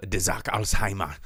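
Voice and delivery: understated German pronunciation of the title. Shown as a demonstration. Host tells co-host the book's title, lightly German accent. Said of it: "You got a problem with German".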